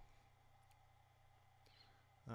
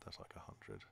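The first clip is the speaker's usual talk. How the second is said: much softer, breathy mutter under the breath; muttered repeat; 12 semitones lower, 12 dB quieter than usual. Real, not acted. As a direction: mutter it again to yourself, softer.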